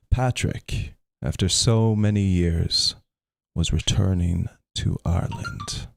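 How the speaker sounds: measured storybook reading; story narration. A narrator's reading. Streamer reading Saint Patrick's story to viewers, story narration. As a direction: read the legend out to listeners, phrase by phrase. Reads a legend aloud to stream.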